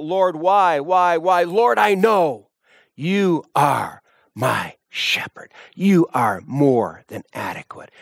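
high anguished pleading that sinks to a hushed whisper; pleading cry to God. Pretend. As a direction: cry out to the Lord, then whisper your trust. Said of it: "You will be crying out".

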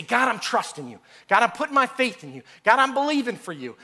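brisk, ready profession of faith; glib prayer. Acted. Believer with a backup plan to God, glib prayer. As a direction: rattle off pious promises. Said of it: "this is what we like to do".

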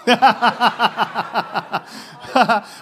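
real burst of laughter at his own punchline; laughing. Real, not acted. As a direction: pastor laughs at the joke he just told, real laughter. Pastor laughs at own joke.

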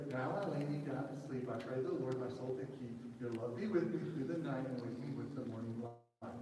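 put-on soft, low recitation of a child's prayer; recited bedtime prayer. Preacher imitating the lamp that would pray, soft recited prayer.

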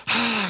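imitated sleepy sigh; put-on sigh of reluctant waking. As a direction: sigh like someone woken by a nudge. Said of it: "she sighs".

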